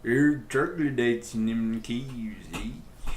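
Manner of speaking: slow, lightly voiced Canadian accent with a tacked-on eh; a half-hearted Canadian Indian impression, drawn out; bad Canadian accent. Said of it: "That was a really bad impersonation".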